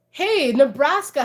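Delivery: ordinary delivery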